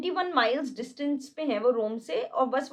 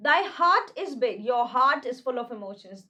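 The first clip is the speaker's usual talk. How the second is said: slow, grave Shakespeare reading; dramatic recitation; much slower than usual. Acted. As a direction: declaim each word slowly. Reads Shakespeare lines slowly. (धीमा नाटकीय पाठ)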